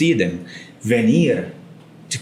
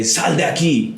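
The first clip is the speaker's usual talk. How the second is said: curt rude order; 3 semitones higher than usual. Acted. To Chris, a rude order to leave. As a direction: tell Chris to get out rudely. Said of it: "If I wanna be rude with Chris".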